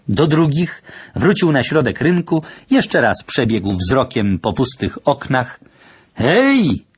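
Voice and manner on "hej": high, restrained call-out; uncertain shout. A narrator's reading. Stranger calls into an empty market square, a hesitant shout. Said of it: "krzyknął, stojąc w słońcu".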